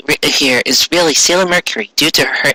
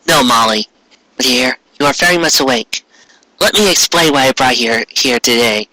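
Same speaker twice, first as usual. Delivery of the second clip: lower, calm regal queen voice; Queen Serenity; 5 semitones lower than usual. Acted. Queen explaining to Molly why she brought her, low regal voice. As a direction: speak down gently like a queen.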